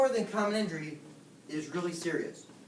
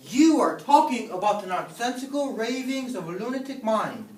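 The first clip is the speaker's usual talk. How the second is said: angry; 2 semitones higher, 4 dB louder than usual. Acted. Teacher's furious rant at student.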